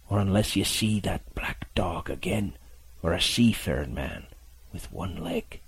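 weak, whispered sea-dog warning; hushed warning. Acted. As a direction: warn the boy under his breath.

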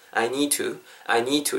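"I need to" run together as "I nee-tu"; linked version. Shown as a demonstration. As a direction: model "I need to" with no separate d. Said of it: "이렇게 연습해 주시고요".

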